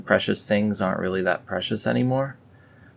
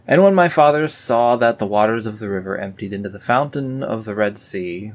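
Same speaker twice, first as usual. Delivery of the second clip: louder, solemn verse reading; scripture reading; 2 semitones higher, 5 dB louder than usual. Acted. Reading the fountain verse to viewers, solemn. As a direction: proclaim the verse.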